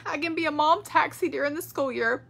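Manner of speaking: reading her own words, voice high and close to tears; moved, barely keeping it together; emotional reading. Real, not acted. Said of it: "I'm getting emotional".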